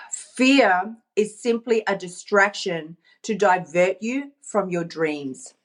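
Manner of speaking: slow, weighty reading, dropping low at the end; measured, spaced-out delivery of a written line; reading a statement. Real, not acted. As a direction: read it out deliberately, like a motto. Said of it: "I'm just gonna read it to you".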